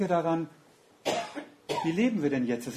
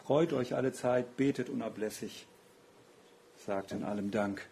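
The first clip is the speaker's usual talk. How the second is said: "Freut euch alle Zeit, betet unablässig, sagt in allem Dank" lower and softer, fading toward "Dank"; quiet reflective repeat; 3 semitones lower, 6 dB quieter than usual. Shown as a demonstration. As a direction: murmur the verse back to yourself, sinking lower. Repeats verse, inward.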